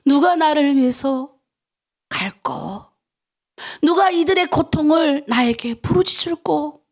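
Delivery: slow, solemn voice of God calling; a hint of a grieving God asking who will go; voicing God's call. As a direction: read it as God's own plea. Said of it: "이사야서에 그러잖아요".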